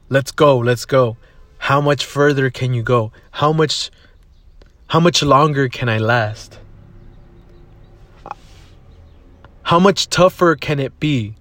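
mildly hyped inner coach; self-motivating. Retold or imitated. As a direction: push yourself up the stairs. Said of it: "I motivated myself".

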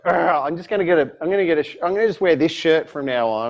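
a touch of exasperation; groan, then grumble in mild frustration; mock frustrated. Customer fed up with being misheard, mildly frustrated. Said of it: "I get so frustrated with it".

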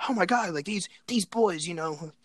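high, slowed gushing with whispered bits; imitating reporter. A reporter praising the boys on TV, high and gushing. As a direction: mimic a gushing news lady.

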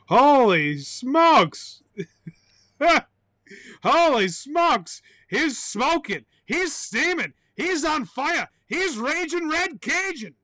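high, swooping, drawn-out exclamations; hammed-up runaway excitement; over-the-top hype. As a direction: whoop each phrase like a crazed announcer. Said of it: "I'm getting out of hand".

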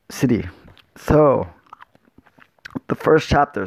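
talking while chewing gum. Real, not acted. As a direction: gum in the mouth while speaking. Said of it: "so I got gum in my mouth".

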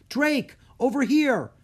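loud, high call for help. A narrator's reading. Trapped Breen calling to Drake, loud and high. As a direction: shout across the cave.

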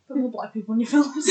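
half-shouted through laughter; laughing while calling out a demand. Real, not acted. Teasing call to the Coens.

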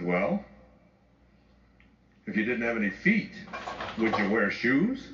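lightly voiced teenage girl, slow on would you wear shoes; a hint of a deadpan teenager posing a silly riddle; teen daughter's quip. Summer teasing her sister at breakfast, lightly voiced deadpan. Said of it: "Summer looked at Serena and said".

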